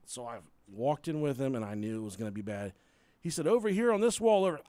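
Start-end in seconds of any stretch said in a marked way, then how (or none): 3.5-4.6 coughing mid-word. Retold or imitated. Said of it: "He fucking coughed a hairball".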